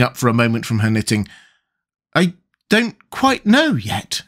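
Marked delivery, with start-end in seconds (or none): 2.1-4.2 high, slow, gentle hesitation. A narrator's reading. Alice answering the sheep shopkeeper, very gentle. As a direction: answer gently, drawing the words out. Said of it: "Alice said very gently".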